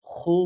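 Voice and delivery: খু made deep in the throat; throaty khu. Shown as a demonstration. Teacher showing students the throat sound of খু. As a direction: scrape খু from the back of the throat. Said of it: "খু গলার মধ্যে".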